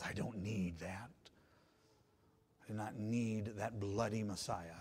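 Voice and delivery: a hint of a dismissive scoffer; mildly voiced proud refusal. Preacher mimics the proud man rejecting Christ, mild scorn. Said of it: "instead say to themselves".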